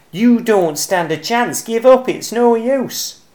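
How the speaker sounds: high, loud bossy yelling; taunting shout. Acted. Bruce taunting Cyril during the chase, loud high shouting. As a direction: shout him down, slowing at the end. Squirrels fighting over pine cone.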